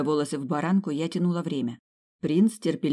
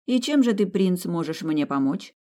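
challenging; 3 semitones higher than usual. Acted. Heroine challenges the prince.

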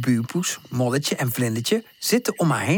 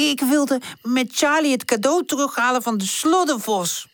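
Woezel voice; 10 semitones higher than usual. Acted. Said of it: "zegt Woezel".

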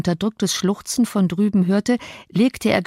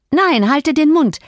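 high, loud, drawn-out protest; exasperated high yell; angry outburst; 8 semitones higher, 5 dB louder than usual. Acted. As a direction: shout the taunter down. Enraged girl silencing her taunter.

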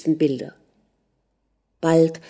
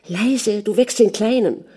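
higher, urgent plea without whispering; urgent hushing; 4 semitones higher than usual. Acted. Mother hushing husband beside sleeping child, urgently. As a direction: hush him urgently in a raised pitch.

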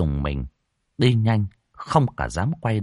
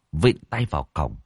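plain reading voice

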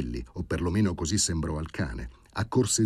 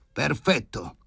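high, emphatic exclamation; pitched-up voice, sudden and emphatic; exclaiming into the phone; 8 semitones higher, slower than usual. A narrator's reading. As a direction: call it out high and decisive. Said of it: "si udì la sua voce".

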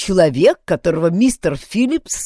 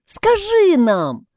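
high, slow drawn-out begging; pleading; 14 semitones higher, 6 dB louder, much slower than usual. A narrator's reading. Maggie begs Mary to tell them, pleading slowly. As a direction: beg like a child. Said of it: "взмолилась Мэгги".

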